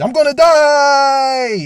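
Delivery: very high, very loud wild scream, "die" drawn out. Retelling flooring the car onto the highway: retelling screaming while laughing. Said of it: "I started screaming and yelling and laughing".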